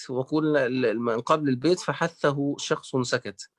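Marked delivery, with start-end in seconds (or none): 1.8-3.5 slow, measured recitation of فحثه شخص سكت; reciting the verse. Shown as a demonstration. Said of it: "جمعها الإمام ابن الجزري في بيت". (تلاوة بطيئة لبيت فحثه شخص سكت)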